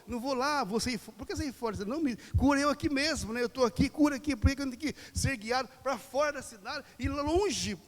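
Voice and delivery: a complaining blind man refusing to be led away; blind man protesting. Acted. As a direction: protest like a stubborn man who won't budge. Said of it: "Aquele cego, ele fala".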